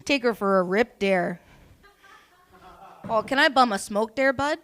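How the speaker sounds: put-on small-town Canadian accent. Bumming a smoke from a bud, put-on Canadian accent. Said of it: "That was so Canadian".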